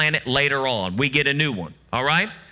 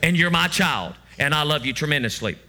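softer, lower, loving God voice; tender Lord; 4 semitones lower, 3 dB quieter than usual. Pretend. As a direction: reassure the child gently as the Lord. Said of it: "And the Lord says".

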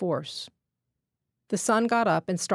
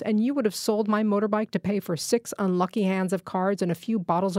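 angry; 2 semitones higher than usual. Acted. Nawab angrily refuses forgiveness.

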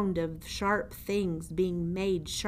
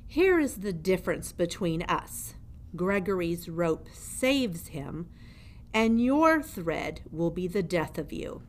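put-on menacing old jailer. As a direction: lean over the prisoner and gloat. Gregory the jailer speaks.

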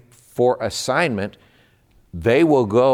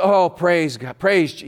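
ecstatic praising; 8 semitones higher, slower than usual. Retold or imitated. The newly saved sister praising God on the phone, high and gushing. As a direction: gush thanks to the Lord nonstop. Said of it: "she's just doing this".

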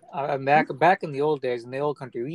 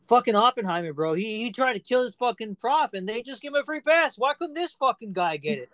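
mock-exasperated author, higher pitched; Malcolm Gladwell; 5 semitones higher, 3 dB louder than usual. Imitating the Canadian author griping about Oppenheimer, mock-exasperated. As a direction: play up an author's indignant disbelief. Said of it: "he didn't say it like that, obviously".

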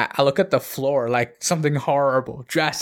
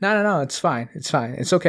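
higher-pitched, quick-to-reassure brush-off; breezy refusal; 3 semitones higher, faster than usual. Retold or imitated. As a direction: wave the offer away in a raised voice. Refusing lunch in retold scene.

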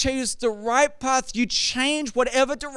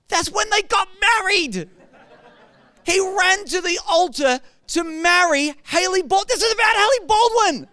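much higher, louder incredulous laugh; laughing disbelief; 9 semitones higher, 4 dB louder than usual. Real, not acted. Pastor laughing that the song is about Hailey Baldwin.

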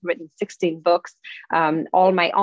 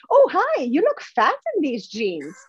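mock bitchy friend; 7 semitones higher than usual. Mock rude greeting to friend.

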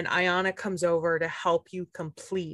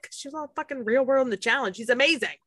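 gushing fan; 5 semitones higher than usual. Pretend. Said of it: "And I'd be like".

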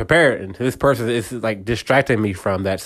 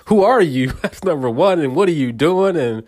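higher, pushy questions to a stranger; suspicious; 5 semitones higher than usual. Retold or imitated. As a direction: push her away with suspicion. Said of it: "Back off," pretty much".

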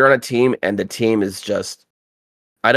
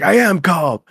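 higher, louder smug "I am calm"; teasing insistence; 9 semitones higher, 5 dB louder than usual. Retold or imitated. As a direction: needle the raging friend. Teasing the raging friend.

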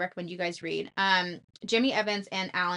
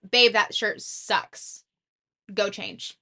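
blunt, louder and slow, a mock harsh husband; 4 dB louder, much slower than usual. Shown as a demonstration. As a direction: snap it out like you mean it, half-playful. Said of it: "you can hear the difference in my tone".

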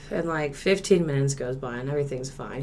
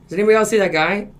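quick, louder, higher repeat; acted-out mounting worry; retold urgent question; 5 semitones higher, 5 dB louder, much faster than usual. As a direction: ask it hurriedly, pressing for an answer. Second asking, more urgent.

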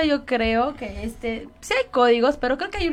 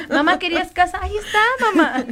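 mock proud child to mom; 5 semitones higher than usual. Mock showing mom a house.

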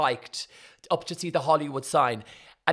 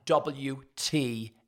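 stunned disbelief; 4 semitones lower, 6 dB quieter, much slower than usual. Retold or imitated. Quoting Kimberly's stunned reaction.

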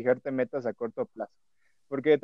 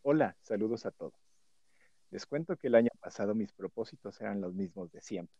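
sensual voice; 3 semitones lower than usual. Acted. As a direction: read it low and seductive. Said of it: "lo voy a leer con voz sensual".

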